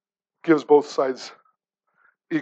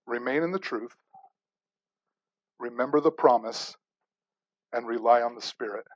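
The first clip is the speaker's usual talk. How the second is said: softer, lower, spaced out reading of the three points; quiet, measured recitation of the points; hushed, deliberate; 6 semitones lower, 9 dB quieter than usual. Acted. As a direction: lay each point down gently with long pauses. Lists three points slowly, hushed.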